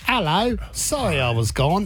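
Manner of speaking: put-on Cockney of someone back from London; mock Cockney accent. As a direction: greet them in an affected Cockney. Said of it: "came back with a Cockney accent".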